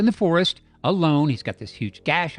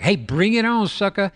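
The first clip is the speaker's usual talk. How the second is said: higher mock-tough taunt; a hammed-up bear egging Bigfoot on; 5 semitones higher than usual. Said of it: "the bear's like".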